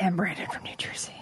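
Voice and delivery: voice dropping and sinking to a whisper. Teasing another speaker by repeating how they said a name: imitating a dropping voice. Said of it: "your voice just dropped at the very".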